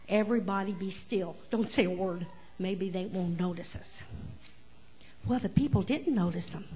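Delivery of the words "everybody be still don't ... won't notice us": hushed warning. Acted. Cow hushing the animals.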